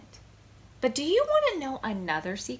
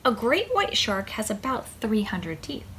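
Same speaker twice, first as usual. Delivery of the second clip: whispered fact. Acted. Reader whispering a shark fact to the child. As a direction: breathe it out like a spooky secret.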